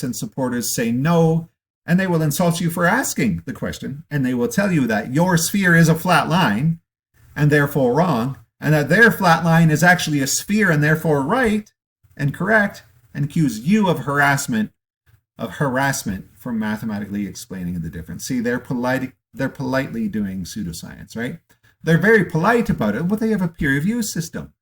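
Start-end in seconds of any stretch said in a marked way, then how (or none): 1.8-16.3 louder and higher, rising into an indignant rant; building angry rant. Real, not acted. Speaker ranting at academics who insult skeptics, louder and louder. 21.8-24.5 higher, louder mock praise; sarcastic. Real, not acted. Speaker mocking academics' politeness, sarcastic and loud.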